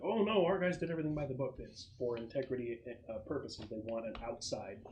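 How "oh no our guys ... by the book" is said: higher, quicker mock assurance; a hint of a partial officer, pitched up and hurried; lightly voiced JAG officer. Military lawyer covering for the Marines, lightly mocked. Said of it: "is gonna be like".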